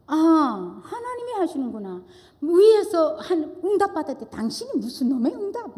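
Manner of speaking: high, scornful jab at her husband; mock angry retort. Wife retelling how she scoffed at her pastor husband, high mocking scorn. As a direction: sneer at his so-called answer from God. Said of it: "막 이랬어요".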